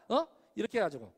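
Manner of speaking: ordinary talk, nothing marked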